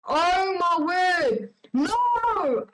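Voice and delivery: high, loud outraged cry of disbelief; outraged outburst. Real, not acted. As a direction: burst out in real outrage at the story. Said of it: "I'm getting mad".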